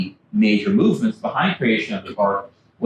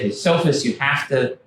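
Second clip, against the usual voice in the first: pleading for help; 4 semitones higher than usual. Retold or imitated. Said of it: "So he said".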